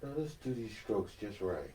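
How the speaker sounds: lightly imitated painting host; easygoing, softened teacher impression; Bob Ross. Mock host guiding Jennifer's strokes, lightly mellow impression. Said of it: "And I'll be like".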